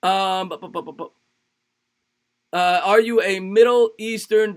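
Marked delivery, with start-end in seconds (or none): none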